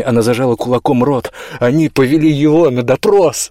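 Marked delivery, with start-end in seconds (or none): 1.6-3.5 loud, breaking cry; near-sobbing shout. A narrator's reading. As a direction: let the voice crack into a shout. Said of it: "Её голос срывался в крик".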